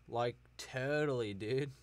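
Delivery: lightly voiced California surfer dude; a hint of laid-back Cali boy; Cali boy accent. Shown as a demonstration. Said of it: "this is what a Cali boy sounds like".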